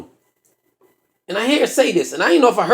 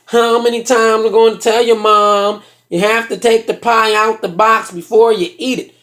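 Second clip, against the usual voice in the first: brother's put-on voice. Brother scolding about the mother and pie, droning put-on voice. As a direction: drone it out as the brother. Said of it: "The brother says".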